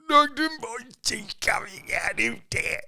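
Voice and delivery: put-on very high excited kid voice; excited toddler. Dad imitating toddler thrilled by monster. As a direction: squeal it like a thrilled child.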